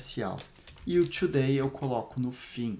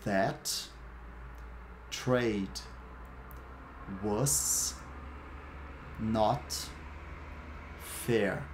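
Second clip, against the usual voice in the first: slow, one word at a time with long pauses; much slower than usual. Shown as a demonstration. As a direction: space each word out for repeating. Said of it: "Repete aí, depois que eu falo a palavra".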